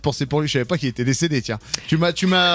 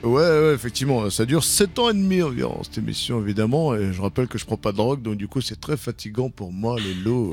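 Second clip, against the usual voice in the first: tired; 6 semitones lower than usual. Real, not acted. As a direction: drag the words out of a tired body. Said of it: "Un peu mort de samedi".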